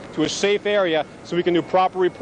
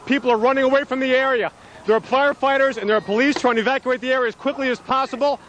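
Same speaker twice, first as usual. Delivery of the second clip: urgent alarmed; 6 semitones higher than usual. Real, not acted. Reporter as tower collapses nearby.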